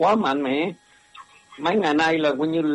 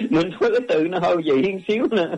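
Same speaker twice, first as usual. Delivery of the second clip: laughing; faster than usual. Real, not acted. Laughs at his odd word choice.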